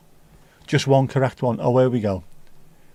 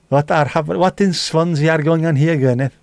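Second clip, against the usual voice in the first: put-on South Welsh accent; 4 semitones higher, 4 dB louder than usual. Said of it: "Vic laughs like your auntie Gwyneth".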